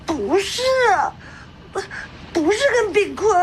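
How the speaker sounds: choked, crying denial; tearful. Acted. The girl tells the aunt it wasn't Bingkun, crying. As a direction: push the words out through tears.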